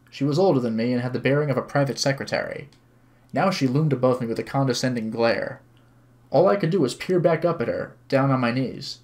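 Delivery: even, measured narrating voice; story narration. A narrator's reading. Streamer reads visual novel to viewers, story narration. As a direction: read the story aloud clearly.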